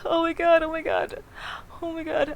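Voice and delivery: shrieking with joy, laughing; shrieking jackpot winner. Real, not acted. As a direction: shriek it like a huge win. Rolls the needed four.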